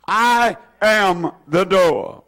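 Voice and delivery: slow, deliberate chanting of the verse; slow group recitation. Shown as a demonstration. Preacher leads the congregation in reciting the verse slowly. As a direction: lead the church in saying it together, slowly. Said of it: "Would you say those words with me?".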